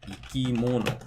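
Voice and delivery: ikimono, fall after mo; pitch drop after third syllable. Shown as a demonstration. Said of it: "Or maybe it drops after the, the third syllable".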